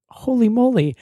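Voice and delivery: surprised exclamation; amazed delight. Retold or imitated. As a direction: marvel at the luck. Got a free voucher unexpectedly.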